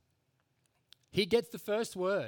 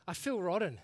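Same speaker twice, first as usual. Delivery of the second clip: retold grumpy outburst, building higher and louder; blunt honesty; 4 semitones higher, 4 dB louder than usual. Preacher retells a blunt reply to a cheery welcome, exasperated. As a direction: imitate an exasperated churchgoer, rising in pitch and force. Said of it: "he says, honestly, he's like".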